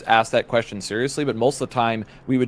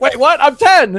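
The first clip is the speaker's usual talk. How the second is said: put-on shocked kid; 14 semitones higher, 11 dB louder than usual. Kid's shocked reply, retold.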